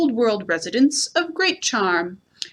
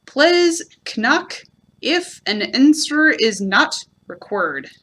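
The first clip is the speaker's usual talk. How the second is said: reading a notice; 2 semitones higher, slower than usual. Shown as a demonstration. Reading the second notice on Owl's door, slow and careful. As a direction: spell it out like a sign. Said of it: "a notice which said".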